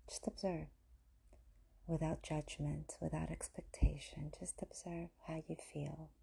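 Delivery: soft, unhurried meditation guidance; guided meditation. Acted. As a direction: invite quiet observing, leaving gentle pauses. Leads meditation after breath.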